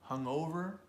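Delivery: hungover with the stress on "o"; stress on second syllable. Shown as a demonstration. Teacher shows the word's stress, "hungover" stressed on O. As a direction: lean on the middle of hungover: hung-O-ver. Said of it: "We'll stress the second syllable".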